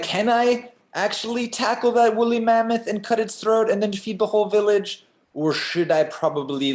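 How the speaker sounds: very high, loud put-on deliberating voice; imagined early hunter. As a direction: wonder aloud in a high, hammed-up voice. Voices ancestor weighing a mammoth hunt.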